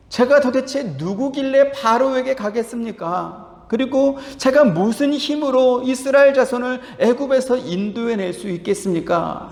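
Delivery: a humble man who doubts he can do it; lightly voiced, imploring Moses; pleading Moses. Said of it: "모세가 하나님께 묻습니다".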